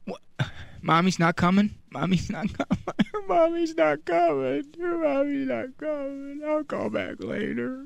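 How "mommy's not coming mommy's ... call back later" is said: high, soft, giggly singsong; a toddler teasing the caller before hanging up. Acted. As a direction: tease it like a small child. Toddler teases, hangs up.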